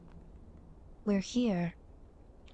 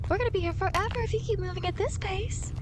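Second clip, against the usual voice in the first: laughing; 6 semitones higher than usual. Acted. Guide laughs at slow traveler.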